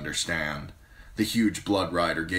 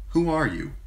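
much higher, brisk question; queen asking; 11 semitones higher, 4 dB louder than usual. Acted. Queen asks the strange woman who she is, high voice. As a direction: ask her directly.

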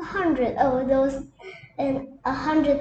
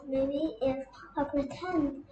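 quiet scheming; 7 dB quieter than usual. Acted. Cat plotting quietly.

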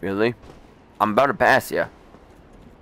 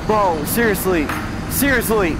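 exasperated whine; 5 semitones higher than usual. Real, not acted. Frustrated at boss spam.

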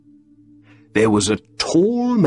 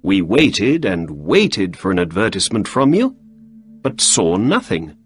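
a hint of Holmes, brisk and a little quick; lightly acted Holmes questioning his visitor.

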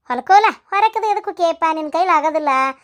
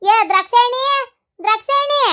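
calling out; 6 semitones higher than usual. Acted. Calling the daughter-in-law from outside.

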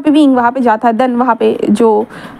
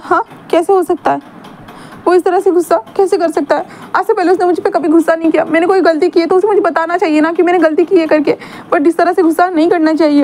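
higher, bewildered and upset; hurt young Wing; 4 semitones higher than usual. Acted. Wing protesting to his friends, higher and upset. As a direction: ask it higher, hurt and disbelieving. Wing's voice held in retelling.

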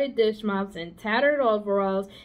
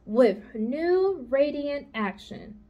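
slow reading; 4 semitones higher, slower than usual. Acted. Charlotte reads the soap ad.

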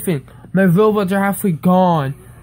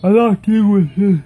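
louder, defiant refusal with a rising end; fed-up outburst; 2 semitones higher, 4 dB louder than usual. Real, not acted. Kid refusing to put up with hackers, loud and fed up. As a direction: push it out, done with it all. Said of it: "It's making me so mad".

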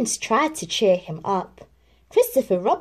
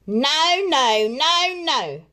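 cried out; 7 semitones higher, much slower than usual. Acted. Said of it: "Rabbit cried".

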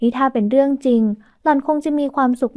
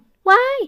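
sudden high startled yelp; startled shriek; 11 semitones higher, much slower than usual. A narrator's reading. Bride caught at the window, shrieking in fright. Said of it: "หวิดร้องลั่น".

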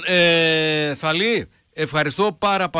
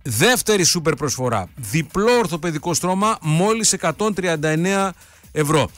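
upbeat sales pitch read over music; cheerful live-read advertisement; radio ad read. Acted. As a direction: sell the mattresses like a live radio spot. Host reads a mattress ad.

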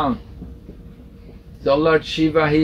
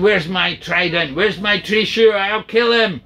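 angry outburst; 3 semitones higher than usual. Acted. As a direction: demand the weapon in mock fury. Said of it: "Lord Shiva got very angry".

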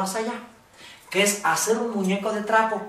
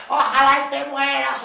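angry wish; 5 semitones higher, 3 dB louder than usual. Shown as a demonstration. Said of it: "no quieres decir".

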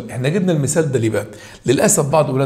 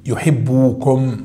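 slow model reading; much slower than usual. Shown as a demonstration. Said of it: "حذف النون".

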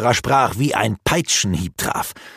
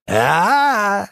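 mocking cry; 10 semitones higher, 4 dB louder than usual. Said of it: "stichelte Rurak weiter".

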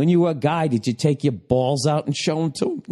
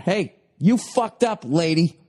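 imagined telling-off yell; mock yelling; 3 semitones higher than usual. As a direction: yell an accusation at her, slowly. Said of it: "just yelling at her".

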